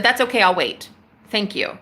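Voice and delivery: calm and sure of yourself; polite but immovable; certain. Retold or imitated. Caller tells the agent she will wait, calmly certain. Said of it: "I said it with such certainty".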